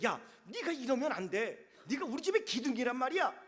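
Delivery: put-on laughing through a little boy's lecture; amused imitation of a stern big brother; mock scolding. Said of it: "다 큰 애처럼 혼내키고 있더라는". (웃으며 흉내 내는 꾸중)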